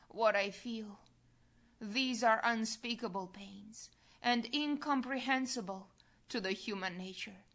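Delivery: a touch of plaintive grief, understated; mildly mournful, lamenting his pains. Acted. Jesus to his daughter, mildly plaintive. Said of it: "With plaintive voice".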